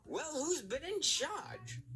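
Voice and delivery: high, slow demanding controller; accented controller. A narrator's reading. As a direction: demand to know who's in charge. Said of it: "cried Mister Power".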